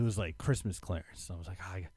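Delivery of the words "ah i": winded from the stairs; puffing after running upstairs; out of breath. Real, not acted. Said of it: "I'm out of breath".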